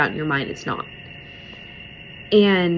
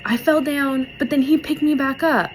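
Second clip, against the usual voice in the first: lightly voiced little girl, pitched up; a hint of a tearful child, higher; retold little girl; 6 semitones higher than usual. Little girl tells mom about falling, lightly imitated child. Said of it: "this little girl is crying".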